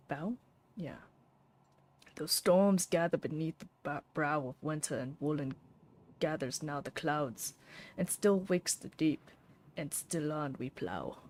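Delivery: put-on Scottish accent reading a poem. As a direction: recite in a Scottish lilt. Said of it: "I don't know why I used an accent".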